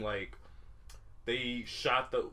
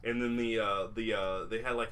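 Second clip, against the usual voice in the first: ordinary talk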